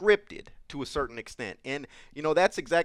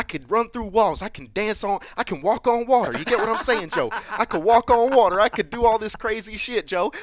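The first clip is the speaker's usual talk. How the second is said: cracking up mid-boast; laughing brag; 6 semitones higher, 4 dB louder than usual. Acted. Coach laughing as he brags to Joe that he could walk on water. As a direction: laugh through the big claim. Hyped-up bragging.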